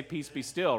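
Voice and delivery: a low, hushed "Peace be still," each word soft; calm the storm with a murmur; hushed command. Retold or imitated. Preacher quoting Jesus calming the storm, hushed.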